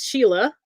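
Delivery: "Sheila" said as SHEE-la; name pronunciation. Shown as a demonstration. Candidate correcting the host on her name, "Sheila" with long ee. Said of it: "my name is pronounced Sheila".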